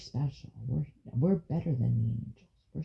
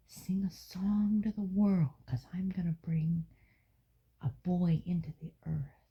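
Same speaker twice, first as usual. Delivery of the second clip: hushed storytelling. A narrator's reading. Grandparent telling a child a Bible story, hushed.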